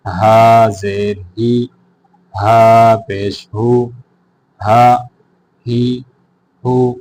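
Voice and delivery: loud, measured spelling-out of each letter and vowel sign; Qaida drill recitation. Shown as a demonstration. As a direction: call each sound out clearly for students to repeat. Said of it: "پڑھنے کا طریقہ یہ ہے". (بلند آواز میں ٹھہر ٹھہر کر ہجے)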